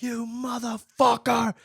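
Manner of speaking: high, slow, drawn-out mock fury; imitated freaking-out mom. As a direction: curse him out like an outraged mother. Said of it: "started freaking out at him".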